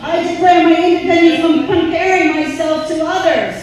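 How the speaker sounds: loud, high declaration for the crowd to echo; call for response. Shown as a demonstration. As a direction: proclaim it loud so everyone repeats. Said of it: "Repeat after me".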